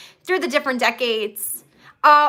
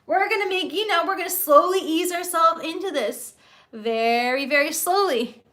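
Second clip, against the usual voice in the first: higher-pitched mock nervous fretting; nervous Mobius; 4 semitones higher than usual. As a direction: imitate someone anxiously easing into it. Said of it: "there's Mobius all nervous".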